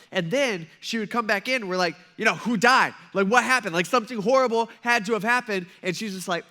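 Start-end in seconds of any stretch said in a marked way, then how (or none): 2.3-5.7 louder, urgent retold disbelief; mock alarm. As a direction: act out alarmed coworkers, half in jest. Retelling alarmed coworkers' reaction.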